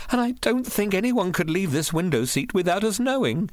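high, frightened woman's voice; anxious, pitch held high; trembling voice. A narrator's reading. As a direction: speak as if badly unnerved. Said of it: "in a trembling voice".

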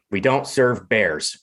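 slow, deliberate refusal; firm refusal. Acted. Bartender refuses the bear one last time, slow and firm. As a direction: spell it out slowly, standing firm.

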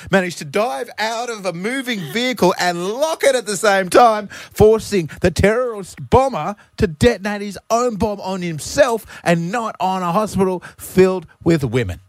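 high-pitched hammed-up English cabbie; mock English accent. Cabbie telling his wife about foiling a plot, mock English accent. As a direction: recount it in a silly, high English voice. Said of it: "butchering this accent".

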